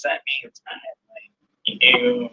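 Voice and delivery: very high squeaky flirt. Acted.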